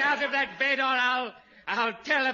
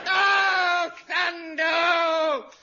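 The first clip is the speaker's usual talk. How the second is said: higher, louder spluttering shouts; hammed-up outrage; 6 semitones higher, 5 dB louder, much slower than usual. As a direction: bellow in comic fury. Major rages at his shaved head.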